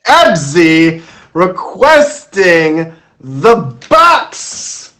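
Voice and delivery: big drawn-out guest introduction; show announcer. Acted. Host introducing the final guest of the evening, hyped announcer. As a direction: announce the guest like a ringmaster, stretching the name.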